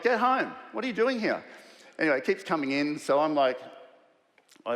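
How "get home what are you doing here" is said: exasperated shout. Retold or imitated. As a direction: shoo them out with mock outrage. Sick colleague comes to office.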